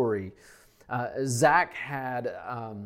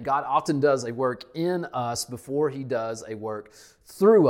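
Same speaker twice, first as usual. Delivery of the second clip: preacher hammering the point home; emphatic repeat; 5 dB louder than usual. Shown as a demonstration. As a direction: land hard on through at the end. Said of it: "Let me say that again".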